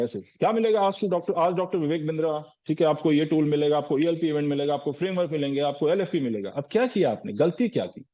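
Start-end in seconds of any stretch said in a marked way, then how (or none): 0.2-6.5 lightly imitated rapid-fire sales list; rattled-off pitch. Consultant listing freebies to a client, rattled off. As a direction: reel off the offerings one after another, mildly mocking. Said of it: "ऐसे धड़ाधड़ बताते हैं".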